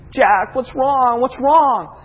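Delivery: acting out a helpless parent; retold worried pleading. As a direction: plead with a crying baby, re-enacted. Retold father pleading with crying baby.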